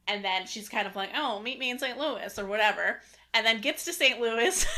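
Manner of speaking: lightly voiced 1940s newspaper lady; old-timey newspaper lady voice. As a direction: read the plot like an old-timey 1940s announcer. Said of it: "newspaper lady from the forties voice".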